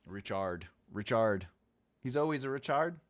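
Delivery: Richard said as "rich-ARD", second syllable full like "chard"; altered Richard. Shown as a demonstration. Streamer joking on viewer Richard's name, Richard said "rich-ard". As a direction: open up the end of Richard into "ard". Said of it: "My accent messes up the words".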